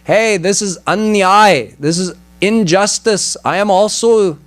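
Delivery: lightly voiced demon crying injustice; mild protesting cry. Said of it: "cried out to God".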